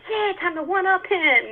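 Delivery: cocky boast that gets shot down; playful self-mocking outburst; mock one-upping. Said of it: "I'm like".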